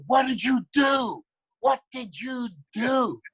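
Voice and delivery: high, slow, furious yell; drawn-out angry accusation; angry shout. Retold or imitated. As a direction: confront the producers head-on, shouting. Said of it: "blew away my anger totally".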